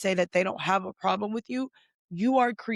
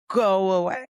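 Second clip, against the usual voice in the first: loud dismissal; 6 dB louder than usual. Real, not acted. Telling contestants to leave.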